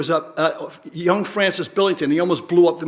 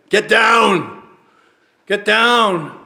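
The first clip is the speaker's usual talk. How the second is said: mock yell; 3 semitones higher, 4 dB louder, much slower than usual. Daughter shouting down from above, a loud mock yell. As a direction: bark it out like an alarmed child.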